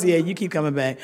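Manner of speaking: put-on low-pitched knowing old-timer. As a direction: lightly voice a wry veteran member. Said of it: "All the old timers".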